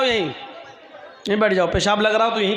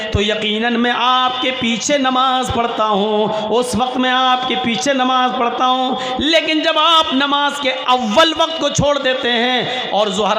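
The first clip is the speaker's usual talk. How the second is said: declaimed reply of Anas. Retold or imitated. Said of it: "हज़रत अनस इब्न मालिक जवाब देते हैं".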